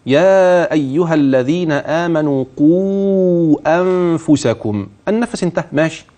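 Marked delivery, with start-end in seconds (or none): 0.0-4.9 slow, measured tajweed recitation; Quran recitation. Shown as a demonstration. Sheikh demonstrating the recitation to the callers, slow and measured. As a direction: recite it slowly, holding the long vowels. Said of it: "هكذا".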